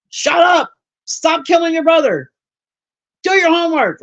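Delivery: high-pitched mock yell at the kids. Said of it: "I was always yelling at a kid".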